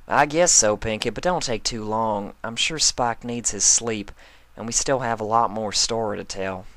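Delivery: gently voiced friend, agreeable; lightly voiced Applejack. Applejack agreeing to leave Pinkie, lightly voiced.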